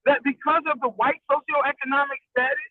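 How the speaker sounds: glitchy, robotic connection. Real, not acted. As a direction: voice breaking up like a robot. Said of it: "You going robotic".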